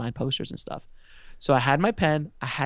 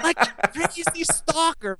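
much higher, slow, breaking into laughter; giggling self-mockery; laughing; 14 semitones higher, much slower than usual. Real, not acted. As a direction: laugh at yourself mid-phrase. Laughing at own fan behavior.

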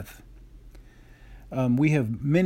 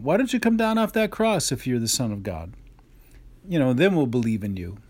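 taunting. Retold or imitated. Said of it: "So they basically say to Jesus".

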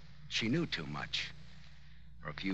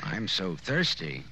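slow, teasing deadpan; dry flirting quip; 4 dB louder, slower than usual. Acted. Detective angling for a drink, dry flirting quip. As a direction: drawl it to flirt.

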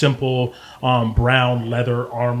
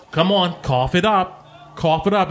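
higher-pitched gnome demanding payment; demanding gnome woman; 6 semitones higher than usual. Acted. Gnome to Sly over a won bet, demanding. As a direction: press for the money in a gnome voice.

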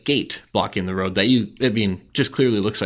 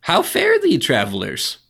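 high, slow goblin greeting; squeaky goblin, very high; 5 dB louder, much slower than usual. Acted. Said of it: "what's my goblin voice".

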